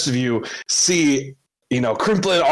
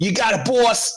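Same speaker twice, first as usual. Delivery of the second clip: put-on Boston accent, pitched up; 7 semitones higher than usual. Voicing Death after a player asks for a Boston accent: Boston accent. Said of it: "a Bostonian accent here".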